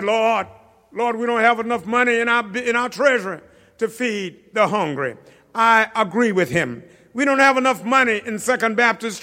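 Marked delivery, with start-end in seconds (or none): 0.0-5.1 frustrated disciple. Retold or imitated. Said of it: "He's frustrated".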